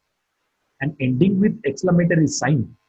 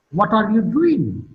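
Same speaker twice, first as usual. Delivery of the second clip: "doing" lifted, then dropping in pitch; slow question, pitch falls through "doing"; falling tone on doing; 2 semitones higher than usual. Shown as a demonstration. Teacher showing students a WH question, falling tone on "doing". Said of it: "Doing is marked with a falling tone".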